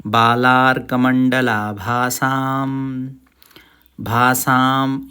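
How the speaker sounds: बालार कमंडला भासाम chanted very slowly, each syllable clear; slow recitation. Shown as a demonstration. Teacher slowly recites बालार कमंडला भासाम for learners. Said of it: "कमंडला बोलना है इसको अलग से".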